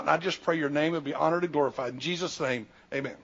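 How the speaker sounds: earnest pastor's closing prayer. Real, not acted. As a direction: pray it over the congregation, steady and sincere.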